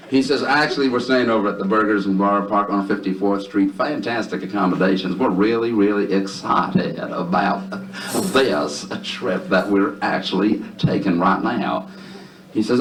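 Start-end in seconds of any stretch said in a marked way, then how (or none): 0.4-11.9 Southern drawl, slowing toward the end; exaggerated Southern accent; thick Southern drawl. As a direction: stretch it out like a Southern gentleman. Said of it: "in a thick, heavy Southern drawl".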